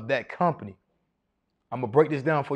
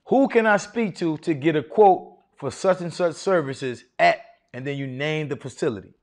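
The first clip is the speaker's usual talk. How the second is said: confident and authoritative. Shown as a demonstration. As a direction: sound like you run the job. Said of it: "say it with your own sauce ... confidence and authority".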